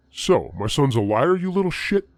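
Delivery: menacing accusation. Retold or imitated. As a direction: bear down on him as you walk closer. Brother threatens, walking closer.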